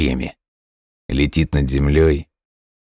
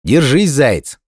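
higher urgent call; shouting; 9 semitones higher, 4 dB louder, slower than usual. A narrator's reading. Hedgehog tells the hare to hold on, shouting. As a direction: call out encouragement, pitch jumping up. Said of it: "крикнул ёжик".

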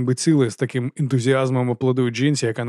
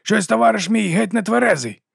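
mock jolly citizen; 9 semitones higher than usual. A narrator's reading. Morvir plays jolly citizen.

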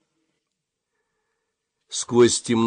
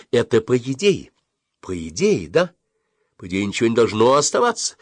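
heated; 3 semitones higher, 3 dB louder than usual. A narrator's reading. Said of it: "горячо сказала мама".

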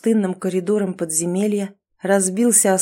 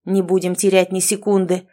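puffing. Acted. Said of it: "пропыхтел Эрик".

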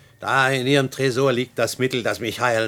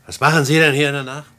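erschrocken; 3 semitones higher, 7 dB louder than usual. Acted. Ertappt, erschrockene Gegenfrage.

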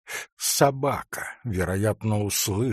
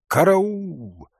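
high, drawn-out call for help; distant cry; 7 semitones higher, 4 dB louder than usual. A narrator's reading. Someone in the storm calls for help, crying out. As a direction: cry out for rescue. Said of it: "явственный крик".

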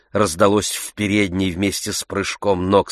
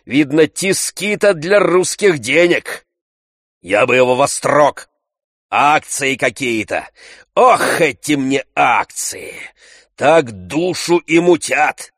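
raised, higher rough guest grumbling; Tarantyev's voice; 7 semitones higher, 4 dB louder than usual. A narrator's reading. Tarantyev grumbling to Oblomov about shares, loud and high.

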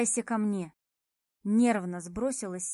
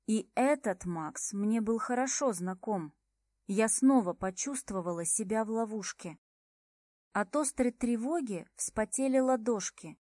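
ordinary delivery

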